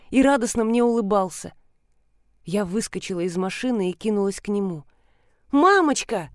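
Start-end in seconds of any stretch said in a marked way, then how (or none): 5.5-6.3 put-on a boy calling out as he runs to hug; shouting child. A son runs to his mother, calling joyfully. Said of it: "закричал он".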